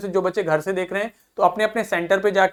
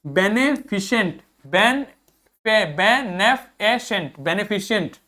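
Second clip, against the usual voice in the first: बेनेफिशिएंट drawn out slowly, be-ne-fi-shent; slow pronunciation drill; slower than usual. Shown as a demonstration. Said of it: "आगे देखिए". (बेनेफिशिएंट धीरे-धीरे बोलो)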